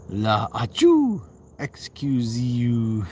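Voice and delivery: slow. Shown as a demonstration. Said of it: "I just said it real fast".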